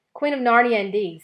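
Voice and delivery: Queen of Narnia spat out high and loud; indignant scoff. Acted. Mr Beaver scoffs at the dwarf, indignant and loud. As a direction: scoff at the title. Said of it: "Of all the cheek".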